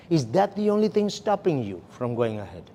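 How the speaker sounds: "only" picked out in a softened question; stress on ONLY. Shown as a demonstration. Trainer recapping the question to a client who objected, stress on ONLY. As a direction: make ONLY the key word, falling at the end. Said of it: "the emphasis is on the word only".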